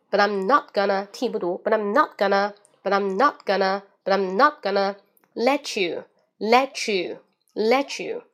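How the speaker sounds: "not gonna" with the T unreleased, "let you" linked; linking drill. Shown as a demonstration. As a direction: drill it in linked chunks, NOT stressed, OWN falling. (连读操练，not 的 T 不读)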